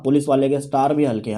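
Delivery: same line said fast in talking voice; brisk, conversational restatement; quick repeat. Real, not acted. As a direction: run through the line quickly. Quick repeat after slow lyric quote.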